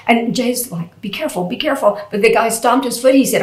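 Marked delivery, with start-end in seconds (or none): 1.0-2.0 softer, higher retold warning; lightly acted hushed concern; gentle caution. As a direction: caution him lightly under the excitement. Retelling Jay cautioning the man.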